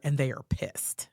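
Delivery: whispered, no voice; hushed warning. Retold or imitated. Social worker quietly warns mother before meeting, whispered. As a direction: breathe the warning so the grandparents can't hear.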